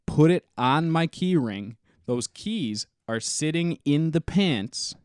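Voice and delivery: deliberate, phrase-by-phrase restatement with emphatic key words; careful rephrasing. Real, not acted. Co-host rephrasing his muddled bottle-opener story, deliberate and emphatic. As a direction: spell it out carefully, pausing between phrases. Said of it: "let me rephrase what I just said".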